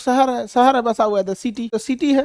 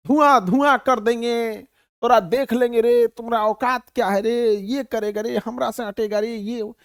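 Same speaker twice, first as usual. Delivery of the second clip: mock brawling threat. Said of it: "बहसबाजी में इतना आगे हैं".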